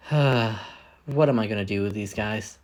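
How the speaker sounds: a slow, resigned sigh about the crew; weary exasperation. Acted. Dallas sighs over the crew.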